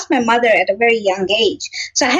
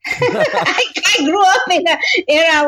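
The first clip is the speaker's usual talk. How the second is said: words breaking into real laughter; high, quick giggling delivery; laughing; 6 semitones higher than usual. Real, not acted. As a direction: laugh through the memory of strict schooling. Laughing at childhood discipline.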